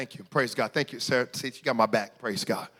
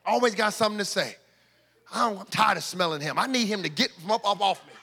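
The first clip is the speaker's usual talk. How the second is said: quick grumbling complaint; mildly mocking a church member's gripe; imitating Consuelo. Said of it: "Consuelo saying".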